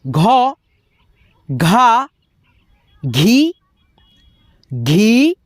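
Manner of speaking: each form from "घ" to "घह" held long, mostly rising at the end; barakhadi drill. Shown as a demonstration. Teacher reciting for students to learn, drawn-out rising "घ" to "घह". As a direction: model each syllable from "घ" to "घह" with pauses between. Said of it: "अब दोस्तों, यहाँ पे देखो".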